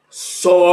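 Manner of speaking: Sozinho, with the middle syllable ZI lifted; syllables sounded out. Shown as a demonstration. Teacher demonstrating where the stress falls in Sozinho. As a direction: say Sozinho lifting the ZI. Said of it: "Preste atenção naquilo que você ouve".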